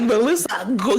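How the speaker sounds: high, laughing mock outrage; pissed-off imitation. Imagining his reaction to the Melissa news, mock pissed. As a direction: play him pissed, half cracking up. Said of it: "He's gonna be so pissed".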